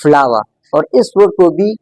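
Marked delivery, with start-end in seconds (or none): 0.0-0.4 "फ्लावर" in British English with silent final r; British non-rhotic "फ्लावर"; British accent. Shown as a demonstration. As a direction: say "फ्लावर" as "flah-wuh", British style. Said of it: "British English में pronounce करेंगे".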